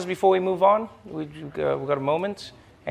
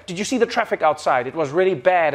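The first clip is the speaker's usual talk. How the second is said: plain, even English delivery of "Did you see the traffic outside"; understated English small talk; stiff plain English. Shown as a demonstration. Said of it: "If in English, you're just like".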